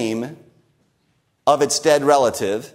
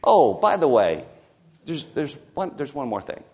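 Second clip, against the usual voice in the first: casual, trailing off much softer; hesitant by-the-way, dropping very quiet; offhand afterthought; 2 semitones lower, 3 dB quieter than usual. Acted. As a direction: slip it in softly, like Columbo's one more question. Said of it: "He sort of clears his throat and says".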